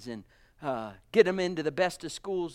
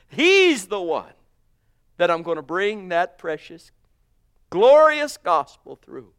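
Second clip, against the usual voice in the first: preaching shout; 7 dB louder than usual. Real, not acted. Preacher building to a climax.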